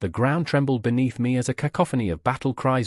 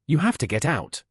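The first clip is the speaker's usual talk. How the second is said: screaming; 3 semitones higher than usual. A narrator's reading. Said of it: "I screamed".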